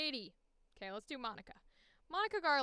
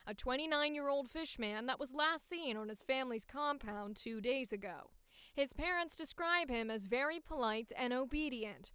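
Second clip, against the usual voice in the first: crisp professional news anchor; newscaster voice. Acted. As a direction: read it like a TV anchor. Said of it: "I'm gonna give them the newscaster voice".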